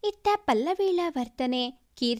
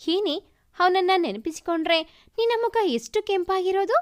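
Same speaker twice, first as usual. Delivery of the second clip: teasing; 4 semitones higher than usual. Acted. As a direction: rib her friend about her crush, fast. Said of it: "ಎಂದು ರೇಗಿಸಿದಳು". (ಗೆಳತಿಯನ್ನು ತಮಾಷೆಯಾಗಿ ರೇಗಿಸುವುದು)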